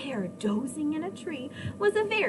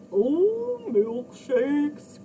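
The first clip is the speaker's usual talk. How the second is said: dizzy cry; 6 dB louder, much slower than usual. A narrator's reading. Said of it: "cried the very dizzy cow".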